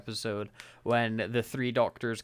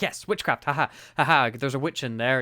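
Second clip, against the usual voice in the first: gleeful exclaim; 4 dB louder than usual. Retold or imitated. Doctor seizing on witchcraft to fool the guards, gleeful. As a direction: burst out delighted at the idea. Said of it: "He's like".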